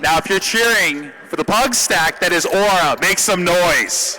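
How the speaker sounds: loud, high-pitched arena announcer; crowd hype. Real, not acted. Caster asking Aura fans to make some noise, loud crowd hype. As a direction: belt it out to rouse the fans.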